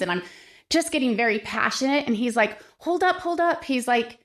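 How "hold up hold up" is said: high, mock-alarmed "hold up"; startled colleague. Fellow legislator cutting off her pitch, mock-alarmed high voice. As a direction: play the taken-aback legislator, hands up.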